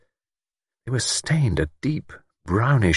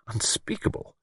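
hushed, whispered word; horrified whisper; 4 semitones higher, 9 dB quieter than usual. Acted. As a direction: breathe it out in horror. Recalls a horrifying face.

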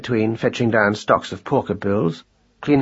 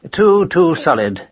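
slower, pleading lament; plaintive; 5 semitones higher, 4 dB louder, slower than usual. A narrator's reading. Marcus lamenting his son's return, plaintive. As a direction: whine it in dismay. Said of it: "Marcus had cried plaintively".

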